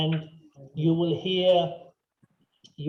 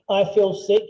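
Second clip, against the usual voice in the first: loud hammed-up sick complaint; mock sick moan; 2 semitones higher, 7 dB louder than usual. Shown as a demonstration. Teacher hamming up being sick for the class. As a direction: play up the queasy stomach. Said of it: "you put one hand on your stomach".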